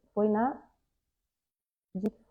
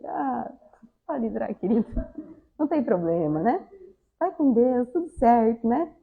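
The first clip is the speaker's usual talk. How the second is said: acted forgiving aside. Acts out letting the driver in. (tom manso de quem releva)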